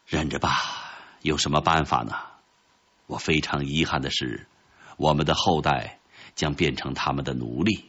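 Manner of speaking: a kindly nanny's mild, low regret; kind nanny's resignation. Acted. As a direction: console quietly, resigned to it. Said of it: "善良的保姆说".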